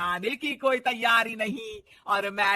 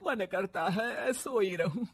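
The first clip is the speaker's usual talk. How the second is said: tired complaint; 7 dB quieter than usual. Acted. Tired mother-in-law.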